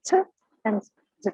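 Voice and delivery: t and d said apart, clearly; demo sounds t and d. Shown as a demonstration. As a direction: show t then d clearly. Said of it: "these four sounds are".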